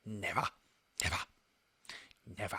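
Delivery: odd Caine reading. Retold or imitated. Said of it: "It's such a weird reading".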